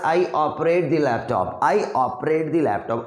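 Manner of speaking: each word slow and clearly separated; slow drill sentence. Shown as a demonstration. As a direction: model it slowly for students. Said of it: "पहला sentence है देखो". (धीरे-धीरे अभ्यास वाला वाक्य)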